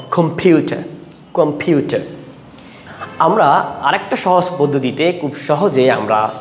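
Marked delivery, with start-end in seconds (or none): 0.1-2.0 "কম্পিউটার" with the weight on পিউ; second-syllable stress. Shown as a demonstration. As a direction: stress পিউ in "কম্পিউটার", falling away on টার. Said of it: "তাহলে কীভাবে উচ্চারণ করবো".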